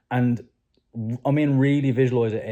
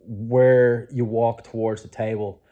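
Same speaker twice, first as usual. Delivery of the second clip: guided visualization. Acted. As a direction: paint the room for them, gently.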